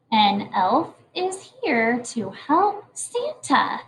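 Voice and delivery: very slow, word by word; slow choral reading. Shown as a demonstration. Teacher leading the class in reading the letter aloud slowly. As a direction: read it together slowly. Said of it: "Will you read it with me".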